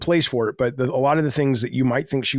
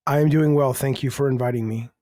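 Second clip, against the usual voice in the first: mannered and prim. Pretend. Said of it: "So mannered".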